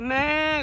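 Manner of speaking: long, high imitated bleat; sheep bleat. Showing the child baby sheep, imitated bleat. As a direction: draw out a high sheep's baa.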